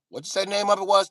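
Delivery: put-on high, loud, rapid old white guy; old white guy impression. Old white guy asking the video's name, high and rapid. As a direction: fire it off in a high, insistent voice.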